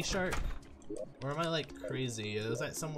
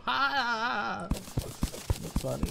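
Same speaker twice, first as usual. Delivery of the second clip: laughing; 8 semitones higher, 4 dB louder, much slower than usual. Real, not acted. Single loud laugh.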